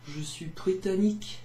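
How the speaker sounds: a hint of a gruff man. Shown as a demonstration. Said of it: "That's my man voice".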